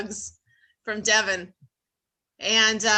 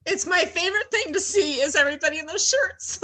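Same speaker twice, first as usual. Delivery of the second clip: overwhelmed with joy; 5 semitones higher than usual. Real, not acted. Overcome with joy at friends' shirts.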